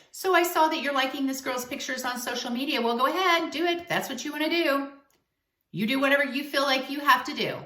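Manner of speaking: imitating a sugary, passive-aggressive jab; mock-sweet sarcasm, mildly hammed up. Girlfriend mocking her man over liked photos, passive-aggressive tone. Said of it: "in a very passive aggressive way".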